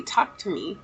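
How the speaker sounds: gentle, softened retold message; softly heard voice. Daughter retelling the message she heard, softly. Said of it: "I heard it so clearly".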